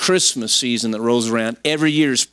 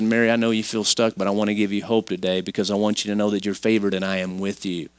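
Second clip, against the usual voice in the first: reassuring; 5 semitones lower, 3 dB quieter than usual. Acted. God reassuring Mary, acted.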